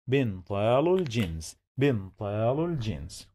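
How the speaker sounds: "بنطال الجينز" quickly, joined into one phrase; connected speech. Shown as a demonstration. Teacher showing connected speech, quick and joined up. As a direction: run "بنطال الجينز" together with no break. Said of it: "Here we have connected speech".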